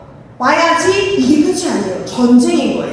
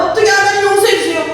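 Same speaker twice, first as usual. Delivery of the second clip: higher, hurried mock plea; pleading; 6 semitones higher, faster than usual. Preacher voices someone begging God after death, pleading. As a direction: beg God for forgiveness, quick and raised.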